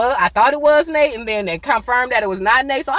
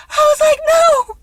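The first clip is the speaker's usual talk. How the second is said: high, loud cry of no; shout; 9 dB louder than usual. Retold or imitated. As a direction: yell it in disbelief. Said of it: "I literally screamed".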